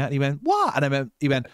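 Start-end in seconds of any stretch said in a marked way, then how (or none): 0.4-0.8 incredulous what. Retold or imitated. Shocked lad on subway train.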